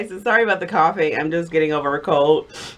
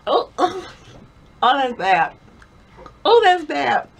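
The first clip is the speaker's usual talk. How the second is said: disgusted; 11 semitones higher, 3 dB louder than usual. Real, not acted. Tasting gross jelly bean.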